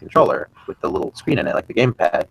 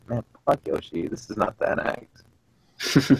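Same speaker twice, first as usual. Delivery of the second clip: quiet, slow letdown grumble; muttered disappointment; 7 dB quieter, much slower than usual. Retold or imitated. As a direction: mutter it, deflated. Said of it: "And I was like".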